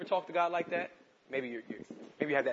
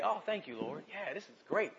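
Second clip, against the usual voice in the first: breezy praise; 4 semitones higher, 3 dB quieter than usual. Retold or imitated. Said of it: "It's easy to say".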